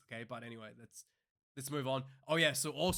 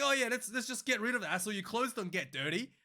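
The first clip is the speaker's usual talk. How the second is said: mocking tone; 7 semitones higher than usual. Mocking the complainer mid-rant.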